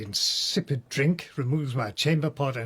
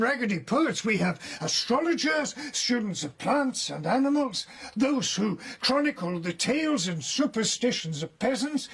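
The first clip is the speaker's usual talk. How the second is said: animated, rising; 5 semitones higher than usual. Acted. Prisoner conjures imagined party scene.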